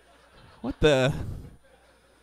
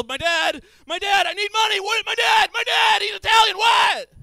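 high, loud, frantic ranting; retold rant; 9 semitones higher, 4 dB louder than usual. Son ranting at the doctor, high loud. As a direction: spill it out like a panicking son. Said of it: "I'm like".

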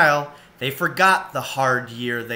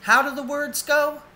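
Ma asking, voice lifted higher; a curious Ma, pitched up; Ma, lightly voiced; 13 semitones higher than usual. A narrator's reading. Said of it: "said Ma".

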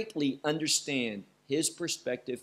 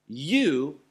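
"You" pressed out louder, on its own; single out "You" with weight; stress on you; 3 dB louder than usual. Shown as a demonstration. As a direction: lean on "You" and pause after it. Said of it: "and this is emphasized".

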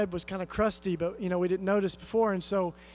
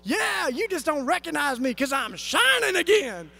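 joyful, beaming; 7 semitones higher, 4 dB louder than usual. Retold or imitated. Woman returns transformed, joyful.

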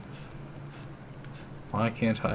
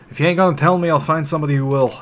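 louder, higher angry threat as the thug; thug's threat; 5 semitones higher, 6 dB louder, faster than usual. Acted. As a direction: storm off threatening. Voicing angry thug NPC.

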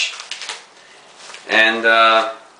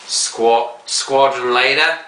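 pipe smoker voice; 3 semitones higher, slower than usual. Shown as a demonstration. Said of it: "light your pipe impersonation".

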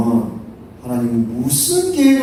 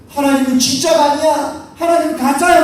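tag; 4 semitones higher than usual. Acted. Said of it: "막 손가락질하며".

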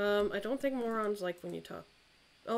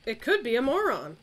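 louder, for a partner who missed it; louder repeat; 3 semitones higher, 7 dB louder than usual. Real, not acted. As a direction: say it again, louder. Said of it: "repeated louder".

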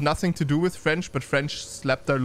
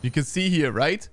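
lightly animated esports commentary; game caster keeping up with the action; live play-by-play; 3 semitones higher than usual. Real, not acted. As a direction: call the team fight as it unfolds.

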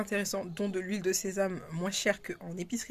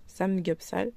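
Samgyeopsal said the Korean way, rising at the end; Korean accent; slower than usual. Shown as a demonstration. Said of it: "pour que vous entendiez mon accent coréen". (Samgyeopsal avec l'accent coréen)

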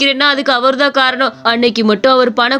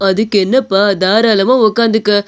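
lightly voiced old man, a bit lower; easy, unhurried old shopkeeper; kind old shopkeeper; 3 semitones lower than usual. Old shopkeeper tells the tired boy to sit, lightly voiced old man.

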